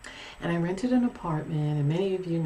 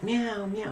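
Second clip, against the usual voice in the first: higher-pitched mimicked meows; imitated cat meow; 4 semitones higher than usual. Cat interrupting its owner's rest, imitated meowing. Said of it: "and then my cat".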